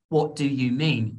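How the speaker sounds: "What do you mean" with each word separate; unchunked words. Shown as a demonstration. Teacher showing what not to say, "What do you mean" unlinked. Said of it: "You don't say".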